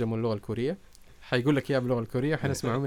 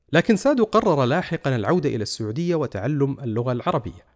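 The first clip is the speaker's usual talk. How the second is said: documentary narration; 6 dB louder than usual. A narrator's reading.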